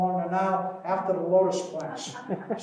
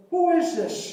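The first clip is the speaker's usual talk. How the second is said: high, loud startled question; surprised bees; 9 semitones higher, 6 dB louder, slower than usual. Pretend. Beekeeper voicing startled bees seeing a giant, surprised. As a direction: pretend to be thousands of bees looking up.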